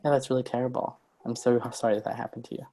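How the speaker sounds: soft and quiet, truly meaning it; gentle, caring pity with room to grow; quiet, heartfelt "so sorry"; sincere sympathy. Shown as a demonstration. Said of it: "listen to the two things I say".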